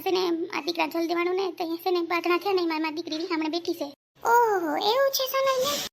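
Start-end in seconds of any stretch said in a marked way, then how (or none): 4.2-5.9 surprised exclamation. Acted. Surprised at the news.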